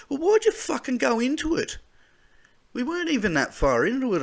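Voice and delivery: high and loud exasperated rant, fast; angry rant. Real, not acted. Questioning the submarine deal, he rants in real anger. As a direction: let the frustration boil over.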